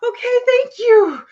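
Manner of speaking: very high, loud, slow mock-polite thanks; overwhelmed thanks. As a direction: squeeze out an awkward, drawn-out thank you. Overwhelmed reply to intense fan.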